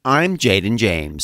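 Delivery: slow newsreader sign-off; news anchor voice. Shown as a demonstration. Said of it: "Can you say Jaden James like that?".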